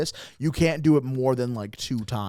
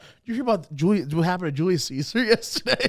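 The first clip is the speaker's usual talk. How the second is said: feigned surprise, a bit higher; mock casual; 4 semitones higher, faster than usual. Man to his date, faking casual interest. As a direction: pretend it just came up. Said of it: "Pretending like it just came up".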